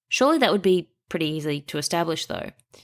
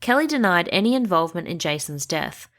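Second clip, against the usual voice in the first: normal talking voice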